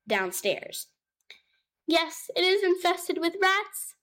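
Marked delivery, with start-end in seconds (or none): 1.9-3.9 tearful. A narrator's reading. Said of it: "said Tabitha tearfully".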